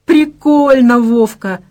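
high, loud burst of delight; a laughing high exclamation. Acted. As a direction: cheer him on with a laugh. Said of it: "рассмеялась Надя".

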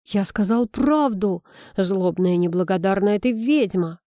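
plain reading voice

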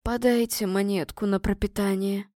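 mild hoarse beggar's plea; lightly voiced hoarse beggar; understated croaky call for alms; hoarse begging call. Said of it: "хрипло крикнул".

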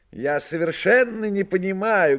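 high, lively talking cat; a cheeky cat speaking from above. Acted. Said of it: "говорил он сверху".

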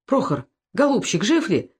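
lightly voiced, gentle concern. A narrator's reading. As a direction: soldier gently asks the downed friend if he lives. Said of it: "спросил служивый с участием".

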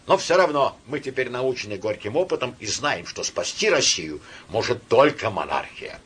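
ordinary delivery, nothing marked

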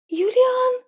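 high, loud scream of a name; frightened cry. A narrator's reading. Frightened girl screams her husband's name, high and loud. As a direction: cry out in fear.

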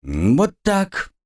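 smugly pleased; a touch of smug satisfaction; satisfied. A narrator's reading. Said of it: "удовлетворённо произнесла".

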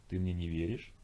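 understated, unruffled question; calm. A narrator's reading. Ho answers the doubting Sergey, calm. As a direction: ask evenly, without any heat. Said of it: "спокойно произнесло Хо".

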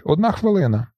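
high shouted countdown. A narrator's reading. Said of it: "Хтось в автобусі кричить". (вигук)

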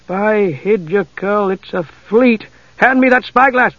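urgent alarm dawning in his voice; concerned. A narrator's reading. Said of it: "Concern altered his tone".

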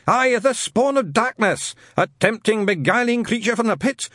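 put-on loud, high, ranting old zealot; fire-and-brimstone rant. Shadwell mishearing Newton's name, ranting loud. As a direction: rant it like a hellfire preacher.

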